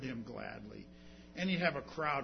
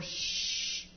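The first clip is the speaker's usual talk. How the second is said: hushed whisper to the beggar; whispered shush; 2 semitones higher, slower than usual. Retold or imitated. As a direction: whisper him down to silence. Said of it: "were telling him that".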